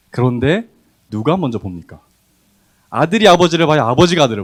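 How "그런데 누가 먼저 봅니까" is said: usual speaking voice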